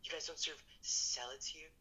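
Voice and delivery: shrill shrieking outrage at the top of the voice; mock outraged vegan. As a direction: rant like an offended vegan customer. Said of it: "is just like".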